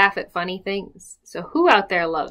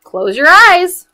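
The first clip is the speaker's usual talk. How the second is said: higher, slow warning; 11 semitones higher, 12 dB louder, slower than usual. Acted. Pirate mommy warns her pirates at bath time, slow and high. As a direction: warn the kids to shut their eyes. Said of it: "warns the pirate mommy".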